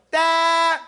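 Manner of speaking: "Ta" bouncing off the t into a held vowel; bounced consonant. Shown as a demonstration. Teacher explaining the letter, joined drawn-out "Ta". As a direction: join t and vowel in one long "Ta". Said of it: "put it together and you bounce over it".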